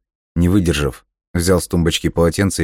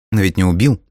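reasonable remark; 3 semitones higher, 3 dB louder than usual. Acted. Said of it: "резонно заметила Эрика".

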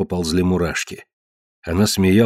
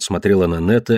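ordinary delivery, nothing marked

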